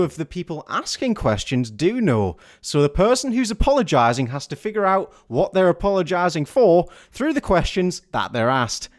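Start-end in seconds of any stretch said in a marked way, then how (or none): none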